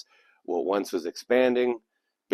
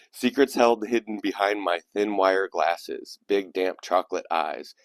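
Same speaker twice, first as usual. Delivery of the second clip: measured recital, each line stepping down in pitch; poem reading. Acted. Host returning to the poem after an aside, measured recital.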